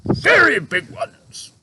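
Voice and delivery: proudly. A narrator's reading. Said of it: "said proudly".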